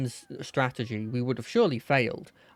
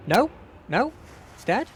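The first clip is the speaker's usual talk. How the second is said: high disbelieving question; can't believe it worked; surprised; 6 semitones higher than usual. Real, not acted. Sudden surprise at victory.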